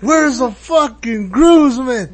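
imitating rowdy stranger. Correcting a friend's impression of the stranger, exaggerated drawn-out call. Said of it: "No, no, it's like".

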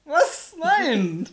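high, loud What and no; baffled outburst; incredulous. Real, not acted. Incredulous at the wheelchair guess.

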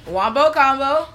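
high excited chant; hype yell. Acted. Hype chant opening video.

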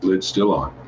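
mid-sip with a drink; talking around a sip of water; while sipping a drink. Real, not acted. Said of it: "if you can hear me drinking".

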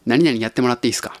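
quick whispered ask, no voice; 何々やってもらっていいですか whispered quickly; whispered request. Retold or imitated. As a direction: breathe the favor out fast and unvoiced. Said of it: "お願いするときに".

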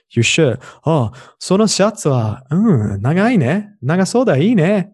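high, sweet indirect compliment; polite Japanese coworker. Retold or imitated. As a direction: gush politely over the shirt. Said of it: "they're like".

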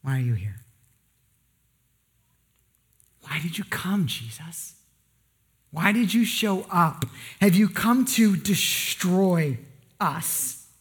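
low, drawn-out demon with a whispered Jesus; slow and low, let "Jesus" fade to a whisper. Acted. Demon questioning Jesus, low and slow. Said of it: "the demon asks".

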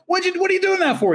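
high, fast yelling pirates. Retold or imitated. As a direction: yell it up at him, fast. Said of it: "they're all yelling at him like".

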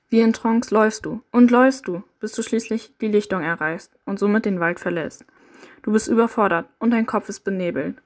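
steady second-person storytelling voice; story narration. A narrator's reading. Narrator guiding the listener through the dark forest, steady storytelling.

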